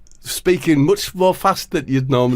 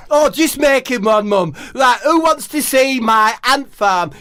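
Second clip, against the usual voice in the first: high Harry voice; 10 semitones higher than usual. Acted. Harry to mum, loud.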